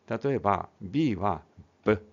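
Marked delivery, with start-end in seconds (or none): 1.8-2.1 ブ as the bare B sound; ブ, the sound rather than letter name. Shown as a demonstration. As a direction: say ブ as a short phonics "buh". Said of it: "ブの音を表し".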